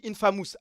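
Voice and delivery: "Infamous" as French "in-fa-mousse"; French pronunciation. Shown as a demonstration. Streamer repeats what the other person says, French-sounding "Infamous". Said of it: "Tu dis Infamous".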